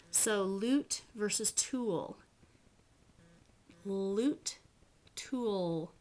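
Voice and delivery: lute with a clear L, tool with a swallowed dark L; light vs dark L. Shown as a demonstration. Teacher contrasting light and dark L for class. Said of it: "The ol becomes a little bit darker".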